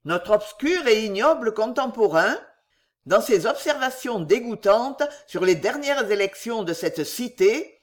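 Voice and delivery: pompous newspaper-article reading; read aloud. A narrator's reading. Winkle reading the hostile article aloud, pompous declaiming. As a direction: declaim the scathing editorial.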